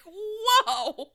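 high, loud laughing whoa; a stunned whoa, cracking up. Retold or imitated. Friend recapping the book, doing Tessa, laughing. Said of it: "she's like".

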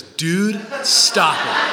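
punched, mocking echo; copycat son. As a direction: mimic a cheeky kid echoing a parent. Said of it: "he looks right at me and goes".

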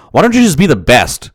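a laugh bubbling into the words; laughing through it. Real, not acted. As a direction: quote it with a real laugh breaking in. Laughing while quoting his advice.

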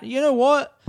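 loud, high, hammed-up rant; mock outburst. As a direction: shout it like a joke tirade. Mock angry outburst at non-Melbourne.

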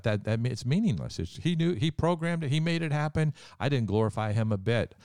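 choked up, pitch rising as feeling takes over; emotional. Real, not acted. To his co-host about the greatest moment, voice rising high with emotion. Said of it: "I'm getting emotional again".

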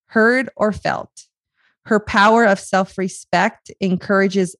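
gentle recital of a poem; poem reading. Acted. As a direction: read it like a gift to a friend. Reads a poem aloud.

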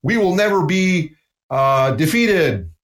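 a sarcastic rah-rah boast; mock rah-rah cheer. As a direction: parody a hollow cheerleading speech. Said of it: "I call it rah-rah speech".

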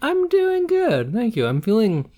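talking with chocolate in mouth; words around a bite of chocolate; eating chocolate. Real, not acted. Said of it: "I also have chocolate in my mouth".

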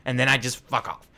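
villain voice. Acted. GM voices Nilbog.

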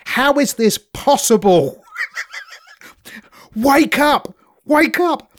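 mock French mum urging high; imitating mum telling her son to wake up, pitched high; mother imitated. Mum on the course, shouting at her son to wake up, hammed high. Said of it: "she says to him".

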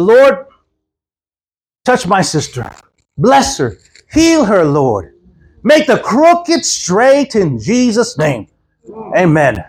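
slow prayer with long pauses between petitions; re-enacted prayer. Pastor praying over a woman at church, slow prayer. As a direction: pray it out slowly, stretching the key words. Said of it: "still remember the prayer today".

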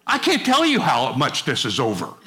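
low, lightly voiced Jesus, final and firm; a hint of Jesus closing the matter; Jesus dismissing. Preacher voicing Jesus shutting the devil down, lightly. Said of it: "you know what he means by that".

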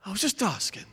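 put-on soft, whiny little kid pleading innocence; a hint of a sulky child. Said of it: "That's like the voice of a little kid".

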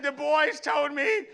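put-on high, loud, slow childlike voice; mock the kid's earnest report; dad imitating daughter's earnest claim; earnest little girl. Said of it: "She said".

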